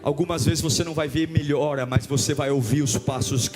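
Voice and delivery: low, measured storytelling with long pauses; grave, low pulpit narration; hushed suspenseful preaching. Real, not acted. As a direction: hold the congregation in suspense, voice dropped low.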